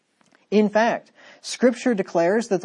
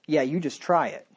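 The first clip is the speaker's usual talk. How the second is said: dare; 3 semitones lower, 3 dB quieter than usual. Shown as a demonstration. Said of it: "in two different tones of voice".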